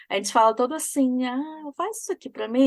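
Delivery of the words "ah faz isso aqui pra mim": endearing little plea; cute polite request. Shown as a demonstration. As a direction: ask nicely, with the please implicit in the tone. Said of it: "Não é meio fofinho".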